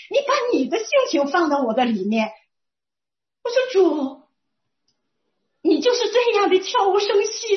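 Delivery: kneeling and marvelling, voice lifted high; amazed prayer. Retold or imitated. Kneels, amazed, praying to God. (惊喜激动地向主呼喊)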